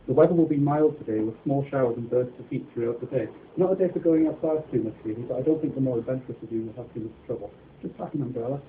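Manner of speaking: bright forecast read, a little lively; weather report. Acted.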